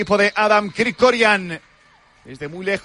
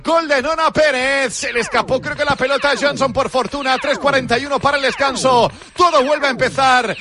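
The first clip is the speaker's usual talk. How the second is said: excited; 5 semitones higher than usual. Real, not acted. Goal just scored, calling it.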